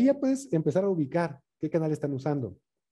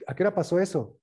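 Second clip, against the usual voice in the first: match the upset person's volume and pace; matching their energy; 5 semitones higher than usual. Shown as a demonstration. Coach showing how to answer an agitated person at their level. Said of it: "háblale en el mismo volumen que él está usando".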